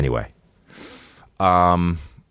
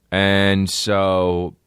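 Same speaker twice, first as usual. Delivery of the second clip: ordinary talk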